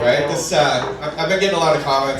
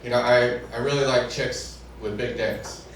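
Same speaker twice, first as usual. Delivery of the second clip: low, offhand confiding tone; casual confession; 4 semitones lower, 5 dB quieter than usual. Retold or imitated. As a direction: confess it lightly, like small talk. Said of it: "casually, in conversation, he says".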